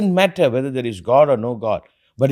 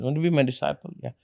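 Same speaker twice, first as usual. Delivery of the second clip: solemn teacher voice; slower than usual. Retold or imitated. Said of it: "So I tell the person".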